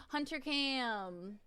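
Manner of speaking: gasping, drawn-out delight at the dog; slow, thrilled call of his name; excited gasp. Real, not acted. Streamer spotting her dog on cam, excited.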